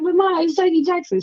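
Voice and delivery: retold high-pitched, emotional plea; freaking out. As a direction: imitate yourself whining to Mom in disbelief. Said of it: "I was freaking out".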